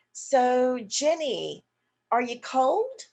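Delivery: slow, gentle asking voice; slow caring question. Shown as a demonstration. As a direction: ask slowly and kindly. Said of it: "using the same cadence".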